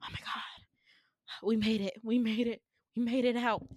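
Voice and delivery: breathy, mock-winded relief; out of breath. Friends barricaded in a room, acting out of breath. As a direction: act lightly winded after an escape. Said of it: "we're all, like, out of breath".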